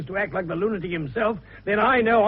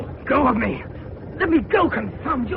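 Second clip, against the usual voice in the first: struggling shout; 6 semitones higher than usual. Acted. Young man collared by the superintendent, frantic yelling. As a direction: fight to break free, yelling.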